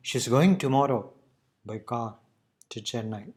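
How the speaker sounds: pause, then play down "by car to Chennai"; stress first, slow after. Shown as a demonstration. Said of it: "So we are just slowing down".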